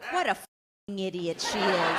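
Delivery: low, slow, scornful thought; scornful inner thought. Retold or imitated. Teen daughter thinking about her mother, slow and scornful. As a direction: sneer it to yourself slowly. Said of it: "And I think".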